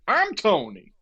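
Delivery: high-pitched imitation of a Boston bar boss; Tony. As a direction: announce yourself as the bar's big character. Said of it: "he looked exactly like what you're picturing".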